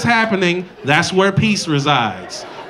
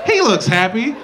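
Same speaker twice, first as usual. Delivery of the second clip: mock content girlfriend; 3 semitones higher than usual. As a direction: play the easygoing girlfriend. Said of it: "Do you go".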